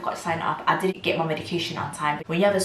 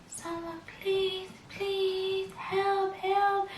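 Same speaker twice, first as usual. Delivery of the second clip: high, thin pleading cry for help; desperate call for help; 7 dB quieter, much slower than usual. Retold or imitated. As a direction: beg someone to come help you. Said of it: "but shouting, like".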